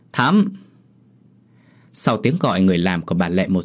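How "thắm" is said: higher, sharper call with a rise; calling out louder. Acted. Mistress calling her maid again, higher and more insistent. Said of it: "mới vừa kêu lên một hai tiếng".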